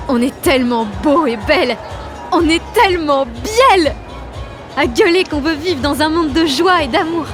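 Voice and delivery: high, loud, elated cry; euphoric yelling. Acted. Jeanne exults with the dancing crowd, euphoric yelling. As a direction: belt it out, stretching the big words.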